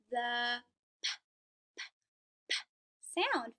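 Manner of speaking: repeated short puffs of p; isolated p phoneme drill; p sound. Shown as a demonstration. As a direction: pop the lips on each p. Phonics teacher modelling p sound.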